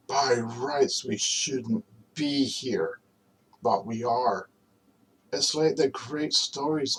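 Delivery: measured, earnest recitation with long pauses; dramatic film monologue. Acted.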